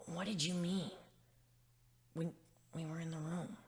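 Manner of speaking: hushed, hesitant sad whisper. Acted. Gilda asking him about the room, sad whisper. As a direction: barely breathe the question. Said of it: "turned to me with sad eyes and asked".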